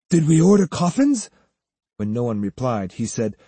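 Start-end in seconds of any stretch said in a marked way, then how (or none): 0.1-1.3 puzzled question, a touch higher; bewildered. Acted. Student running up to the silent group, bewildered. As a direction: ask it as if baffled. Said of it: "asking in a bewildered tone".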